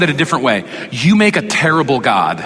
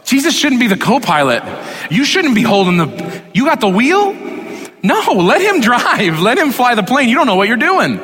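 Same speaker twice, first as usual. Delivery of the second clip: fervent preaching; 9 semitones higher than usual. Real, not acted. Preacher urging congregation to let go.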